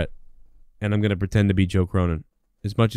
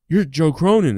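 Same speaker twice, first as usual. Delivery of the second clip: awed recognition; 6 semitones higher, 3 dB louder, slower than usual. Retold or imitated. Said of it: "he was like".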